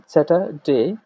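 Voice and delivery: "স্যাটারডে" with a silent r; British pronunciation. Shown as a demonstration. Teacher gives the word before its Bangla meaning, British pronunciation. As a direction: drop the r in "স্যাটারডে", British style. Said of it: "British pronunciation".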